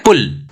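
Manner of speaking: पुल with a quick, short u; fast short vowel. Shown as a demonstration. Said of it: "fast बोल रहे हैं". (पुल में छोटा, तेज़ उ)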